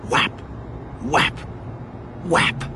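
sharp spoken whap, evenly spaced; imitated whap noise. A narrator's reading. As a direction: sound out an abrupt impact, whap. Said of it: "A sound".

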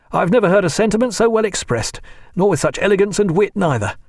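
beaming, a touch breathless with joy; Tom Pullings voiced. A narrator's reading.

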